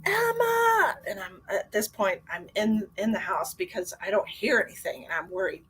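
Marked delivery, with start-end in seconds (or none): 0.0-1.0 calling out. Retold or imitated. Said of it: "And I was like".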